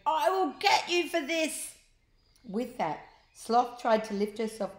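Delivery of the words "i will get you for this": high, loud vengeful voice; Sloth's threat. Acted. Sloth threatening Ned, high and loud. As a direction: spit the threat out.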